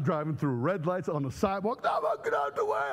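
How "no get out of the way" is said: yelling at traffic. Retold or imitated. Racing to hospital, yelling at traffic.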